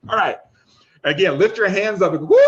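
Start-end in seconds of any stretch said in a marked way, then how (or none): 2.3-2.4 loud, playful "woo"; celebratory whoop. Shown as a demonstration. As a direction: whoop it out like a mock revival cheer. Demonstrates whooping with hands up.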